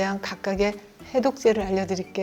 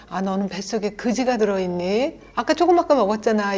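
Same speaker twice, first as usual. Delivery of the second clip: mocking scold. Shown as a demonstration. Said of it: "이런 것이 바로 원수되는 대화라고 그래요".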